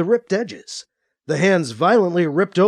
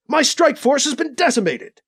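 bellowing; 10 semitones higher than usual. A narrator's reading. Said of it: "bellowed over the open comm".

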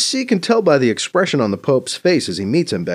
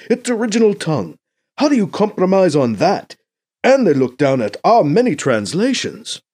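higher, louder troubled negotiator; emphatic Mbeke; 7 semitones higher, 6 dB louder than usual. Acted. Mbeke explaining the failed talks to BC, emphatic. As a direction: argue it out with raised pitch and force.

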